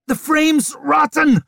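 hissed through teeth. A narrator's reading. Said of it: "she hissed through her gritted teeth".

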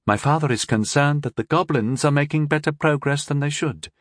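a cool scheming princess. Acted. Narrator voices young princess.

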